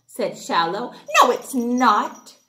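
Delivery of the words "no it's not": snapped back. Acted. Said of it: "Clip snapped back".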